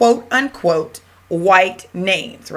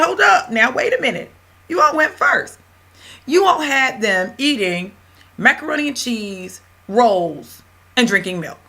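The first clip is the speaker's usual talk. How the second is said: indignant retort; 4 semitones higher than usual. Retold or imitated. Teacher calls out her students' double standard, indignant and high. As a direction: push back hard in mock indignation.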